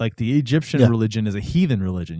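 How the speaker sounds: usual speaking voice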